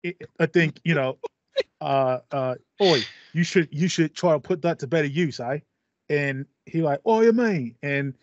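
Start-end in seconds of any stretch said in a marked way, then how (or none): 0.0-5.6 put-on a light cockney British accent; mild cockney. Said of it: "you're really on point with that, uh, accent there". 7.1-7.8 surprised. Acted. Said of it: "someone else British pops up".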